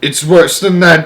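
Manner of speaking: loud, high, drawn-out cry; alarmed cry. A narrator's reading. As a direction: cry out that danger is near. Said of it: "cried the chief of police".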